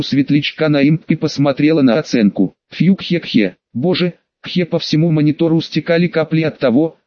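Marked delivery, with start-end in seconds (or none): 2.7-4.7 choking on water; coughing through a sip of water; spit take. Acted. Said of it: "поперхнулась водой".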